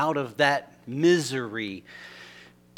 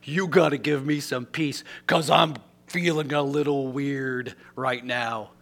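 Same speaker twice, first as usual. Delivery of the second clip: quiet prayer. Retold or imitated. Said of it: "I just said".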